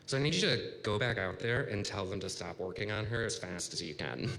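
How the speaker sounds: mildly imitated calm official. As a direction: deliver the instruction evenly, without alarm. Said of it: "she very calmly says".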